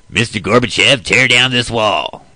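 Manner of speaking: loud, slow, commanding declaration; Reagan. Retold or imitated. Imitating Reagan ordering Gorbachev, slow and commanding. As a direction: deliver it like a stately order. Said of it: "a little bit of a deep tone to it".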